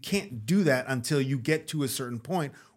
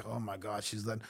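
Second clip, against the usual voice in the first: hushed awe; 4 semitones lower, 12 dB quieter than usual. Retold or imitated. Acts out man in the moment.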